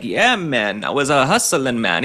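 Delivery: a hint of a mock Jamaican lilt, barely shifted; light put-on Jamaican accent. Commentator mocks governor's hustling story in a faint Jamaican accent. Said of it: "putting on a little bit of a new accent like Kamala Harris".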